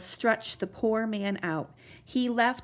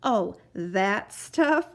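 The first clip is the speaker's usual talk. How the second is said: laughing; 4 dB louder, much slower than usual. Acted. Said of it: "laughed the captain".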